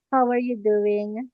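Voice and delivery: normal talking voice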